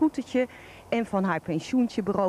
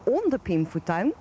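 shocked disbelief. Acted. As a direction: echo it back, appalled. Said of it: "Ik was geschokt".

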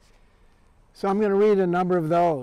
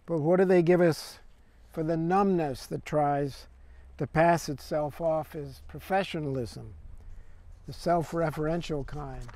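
conversational verse recital with line-break pauses; poem reading. Acted. Poet reads as a replicant chatting to another, conversational recital. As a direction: read the poem as one-sided chat, phrase by phrase.

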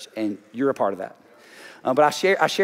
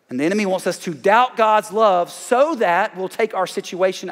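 preaching; 4 semitones higher than usual. Acted. Pastor preaching God's love to the congregation, raised and ringing. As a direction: preach it out to the whole room.

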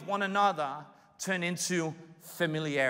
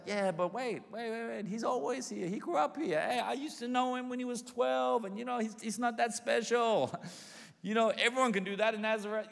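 quieter, dismissive gossip; dismissive neighbor; 3 semitones higher, 5 dB quieter than usual. Retold or imitated. Townsfolk talking Jesus down, quiet and dismissive. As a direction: brush him off like a jaded neighbor. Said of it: "And it's like".

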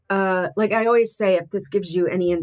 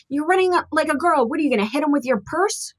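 quoting the father; 8 semitones higher, faster than usual. Retold or imitated. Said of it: "he actually said".

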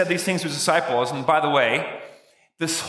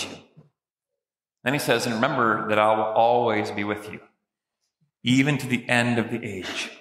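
solemn voice of Jesus; 3 semitones lower than usual. Acted. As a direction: give the charge with gravity. Preacher voicing Jesus' last words.

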